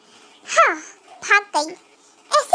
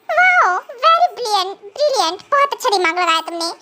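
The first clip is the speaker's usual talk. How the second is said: slow drawn-out mock wow, then lower; sarcastic praise; 5 semitones lower, slower than usual. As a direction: praise her scornfully. Husband sarcastically praises wife. (पति का व्यंग्य भरा तारीफ़)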